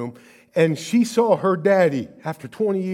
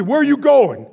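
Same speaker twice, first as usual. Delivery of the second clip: put-on angry child's cry; 10 semitones higher, 7 dB louder than usual. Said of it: "I was so angry".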